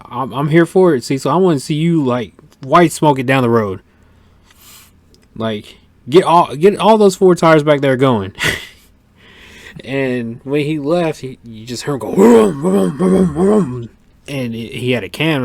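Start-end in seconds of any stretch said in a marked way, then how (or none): 0.0-8.3 hyped up. Retold or imitated. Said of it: "I was like". 12.1-13.9 loud, high revving engine noise; vocal imitation of an engine revving hard; engine vroom imitation.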